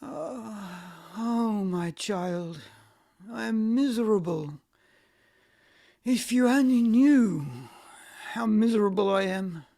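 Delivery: a quick, tearful cry of misery; a hint of a sob, rushing through the words; tearful lament. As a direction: pour out your misery as if on the edge of sobbing. Old nurse lamenting in distress.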